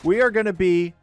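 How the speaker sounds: high, loud sweet-talk to a new pet dino. Real, not acted. Gamer cooing at his newly tamed raptor, high and loud. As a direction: coo at the big guy like a puppy.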